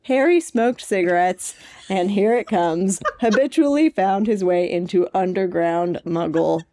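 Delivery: lightly dramatic excerpt reading, amused; reading an excerpt aloud. Acted. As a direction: read the fanfic passage with a grin.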